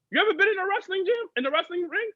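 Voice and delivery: high, fast challenging question; indignant challenge. Retold or imitated. Challenging a coworker about wrestling, a high fast challenge. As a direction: call her bluff. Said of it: "I looked at her and I was like".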